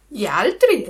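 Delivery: the cat echoing the fox, loudly. Acted. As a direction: repeat it like a dim parrot. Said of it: "ripeté il gatto".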